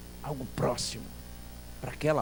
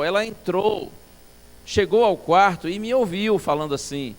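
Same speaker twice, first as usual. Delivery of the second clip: plain reading voice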